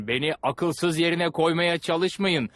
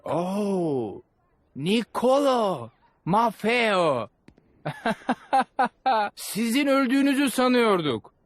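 joyful surprise; 6 semitones higher, slower than usual. Acted. Duke greeting the Polos he thought dead, delighted and high. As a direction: burst out in glad recognition. Recognizes long-lost friends.

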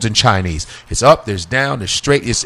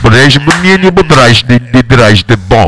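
louder mock Russian, escalating crash announcement; fake Russian pilot panicking; 3 dB louder than usual. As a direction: bark fake Russian as the plane goes down. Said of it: "You're like".

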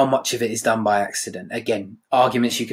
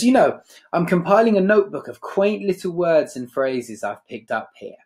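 patronising; 5 semitones higher than usual. Acted. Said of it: "this very patronising tone".

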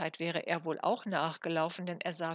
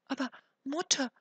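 put-on higher, startled boy's question; frightened; 6 semitones higher, 5 dB louder than usual. A narrator's reading. Jakob to his mother who rejects him, frightened. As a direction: ask it taken aback, pitch lifted. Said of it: "fragte Jakob ganz erschrocken".

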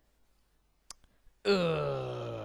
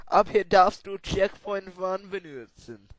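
German reading; 6 semitones higher, 6 dB louder than usual. Acted. Reading level text in German.

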